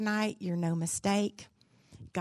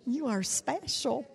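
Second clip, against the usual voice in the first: tender affirmation; 4 semitones higher, 7 dB quieter than usual. Shown as a demonstration. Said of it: "Look at the person next to you and tell them".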